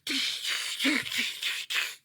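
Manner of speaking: unvoiced tsh-tsh of mocking monkeys; monkey chatter. Monkeys mocking the shouting peddler with tsh tsh. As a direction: hiss it back like cheeky monkeys. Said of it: "the monkeys ... said".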